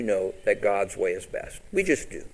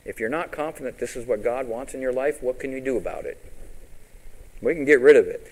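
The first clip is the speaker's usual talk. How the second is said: usual speaking voice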